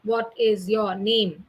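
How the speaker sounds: slow, flat robotic question. Shown as a demonstration. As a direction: speak like a lifeless robot, slowly. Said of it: "That's how the robots will speak".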